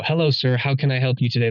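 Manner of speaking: bright, eager customer-service greeting; polite waiter. Retold or imitated. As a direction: greet the table like a server, all sweetness. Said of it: "it completely changed when it went from".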